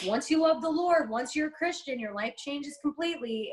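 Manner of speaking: lightly voiced earnest believer preaching; mock preachy Christian. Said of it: "Christians are always like".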